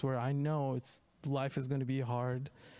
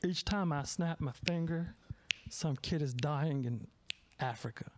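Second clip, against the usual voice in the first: lightly put-on Southern accent as a singer; a hint of a bad American Southern accent. Comic telling a joke, a singer on stage in a mock Southern accent. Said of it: "I'm gonna do a Southern accent".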